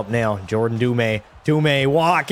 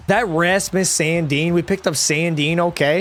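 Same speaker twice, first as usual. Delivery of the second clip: odd delivery; 5 semitones higher than usual. Real, not acted. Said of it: "I don't know why I said it like that".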